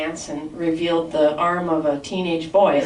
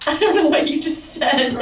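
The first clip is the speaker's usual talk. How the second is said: laughing quote; 8 semitones higher, 3 dB louder than usual. Retold or imitated. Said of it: "I'm like".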